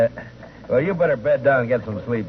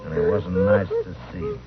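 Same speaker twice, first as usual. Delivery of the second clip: story narration. Acted. The marshal recounting the grim discovery, understated narration.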